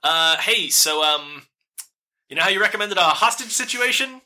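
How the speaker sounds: lightly voiced nervous captor; Alyssa over the stone.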